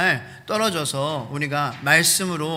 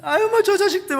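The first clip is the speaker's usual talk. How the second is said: high, louder exasperated grumble; mock cursing; 7 dB louder than usual. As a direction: grumble at those jerks, half joking. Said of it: "욕도 조금 하고".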